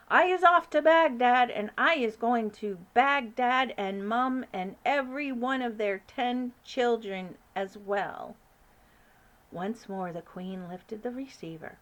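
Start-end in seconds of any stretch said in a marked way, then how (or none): 0.1-8.4 giant bellowing, louder and higher; mock shout. BFG imitating the brute shouting, mock bellow. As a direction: boast it loudly as a brute. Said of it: "shouting at me".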